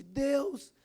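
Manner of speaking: loud, high, slow cry to God; man alone in his room crying out loudly to God; desperate cry. Retold or imitated. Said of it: "começou a gritar desesperadamente".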